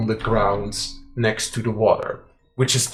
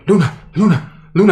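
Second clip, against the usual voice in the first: calling out; 6 semitones higher, 7 dB louder, much faster than usual. Acted. Corvel calls out to Luna.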